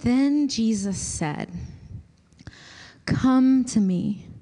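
slow, reverent reading with long pauses; slow scripture reading. Acted. Pastor reading scripture aloud for Lectio Divina, slow and reverent. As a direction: read the words slowly, letting them land. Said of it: "I'm gonna read it slowly".

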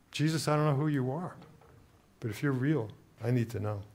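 soft, low, subdued plea; retold desperate prayer. Man who can't stand the hatred prays to Jesus, subdued plea. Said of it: "that's when I cried out".

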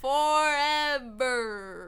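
stretched slow word dissolving into laughter; laugh-cry. Real, not acted. Friend echoing forever, slow laughing drawl. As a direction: drag it out while crying with laughter.

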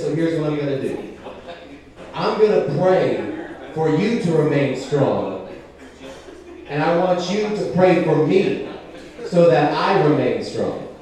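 lightly voiced solemn father, measured pauses; gently grave, slowing toward the end; hardcore Christian dad. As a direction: give a hint of an earnest dad counseling his son. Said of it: "he comes up to me and he goes".

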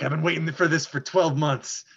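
gruff, slow Wolverine voice. Acted. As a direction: growl it like Wolverine. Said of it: "slip into a little Wolverine, uh, voice there".

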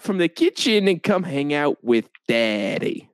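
slow, smarmy flirting; a hint of a sleazy charmer; sleazy pickup line. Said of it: "You say".

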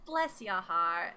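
slow, drawn-out Southern put-down; mock-sweet dig, stretched out; not-nice sweetness. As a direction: imitate a pointed Southern pleasantry, slowly. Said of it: "like, not nice about it".

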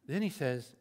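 ordinary talk, nothing marked

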